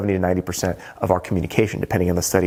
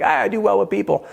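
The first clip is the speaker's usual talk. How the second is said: confident self; 10 semitones higher, faster than usual. Retold or imitated. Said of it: "I'm like".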